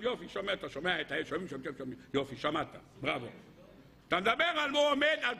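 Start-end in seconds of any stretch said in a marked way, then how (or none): 1.3-2.0 soft, low repeat of the sound check; quiet mic check. Shown as a demonstration. Speaker at a show checking the sound, hushed. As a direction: drop it down low, testing. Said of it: "מתי שומעים".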